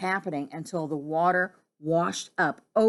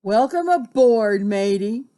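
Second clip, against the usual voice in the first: loud sailor's welcome at usual pitch; mild hearty shout; 6 dB louder than usual. Acted. Captain slapping his friend's back, shouting a welcome. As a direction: hail a mate aboard loudly. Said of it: "Captain Delbert shouted".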